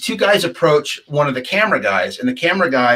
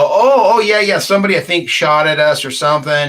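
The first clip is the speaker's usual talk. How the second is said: higher, louder "oh" that settles as the memory comes; sudden recollection; 3 semitones higher, 4 dB louder than usual. Retold or imitated. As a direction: act out suddenly remembering. Retold moment of sudden recollection.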